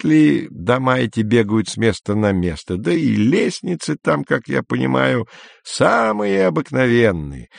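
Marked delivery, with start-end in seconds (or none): none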